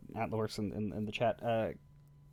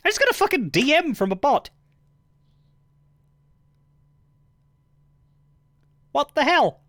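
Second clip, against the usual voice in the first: shocked outburst; 7 dB louder than usual. Real, not acted. Surprised by a bot's DM.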